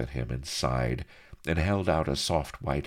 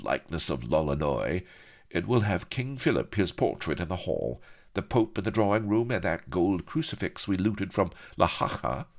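lightly voiced, animated rogue; lively speech building to higher, mock-dramatic alarm; animated story character; 5 semitones higher than usual. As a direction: play up the melodrama towards the end. Acts a character's indignant speech.

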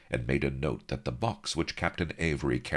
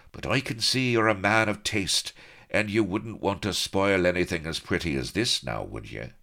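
high, breezy rogue; cheeky colonel; 6 semitones higher, 3 dB louder than usual. Acted. Colonel sweet-talks the officer, high and breezy. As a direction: flatter him with a grin in the voice.

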